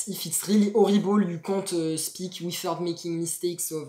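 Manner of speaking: halting English with French accent; heavily French-accented learner's English; horrible French accent. Shown as a demonstration. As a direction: stumble through English with a bad French accent. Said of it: "ça devient horrible. C'est incompréhensible pour eux".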